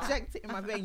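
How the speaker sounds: squealing laughter into the line; laughing mock quote. Mock quote to friends, laughing. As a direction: crack up while quoting it.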